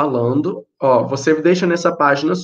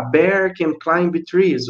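slow recalled example; much slower than usual. Shown as a demonstration. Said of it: "igual quando a gente viu lá".

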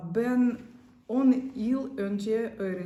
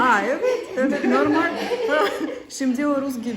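laughing loudly while answering; 6 semitones higher, 12 dB louder than usual. Real, not acted. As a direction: answer through big laughs. Laughing about Turkish husband.

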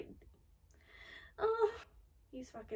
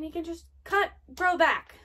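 raised, louder voice of disbelief; incredulous outburst; 5 semitones higher, 9 dB louder than usual. Real, not acted. Viewer astonished that the demon heals, incredulous outburst. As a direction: say it loudly, astounded. Shocked at demon regrowing limbs.

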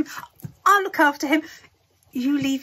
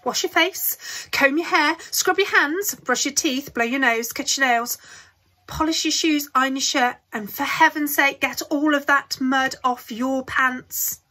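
put-on loud, high, eager old man rattling off orders; excited urging; 5 semitones higher, 6 dB louder than usual. A narrator's reading. Grandpa Joe rushing Charlie to get ready, loud and high. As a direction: hurry him along with loud glee.

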